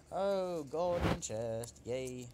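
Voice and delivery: high, drawn-out golden chest; thrilled by the loot; excited. Real, not acted.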